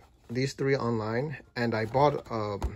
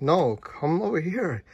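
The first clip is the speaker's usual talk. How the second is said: insistent building; 6 semitones higher, 3 dB louder than usual. Retold or imitated.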